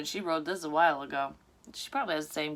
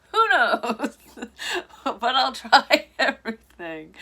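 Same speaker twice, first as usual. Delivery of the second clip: breaking into real laughter, high and loud; can't hold it together, laugh through it; laughing through the words; 6 semitones higher, 9 dB louder, slower than usual. Real, not acted. Reader cracking up at doctor's line, laughing.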